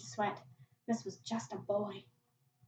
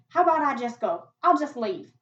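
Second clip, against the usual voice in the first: anxious plea; 4 semitones higher, 9 dB louder than usual. Acted. Boy bargains to escape.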